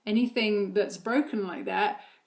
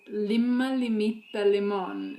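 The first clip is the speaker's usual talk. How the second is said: tongue twister; slower than usual. Shown as a demonstration. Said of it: "they have a little phrase".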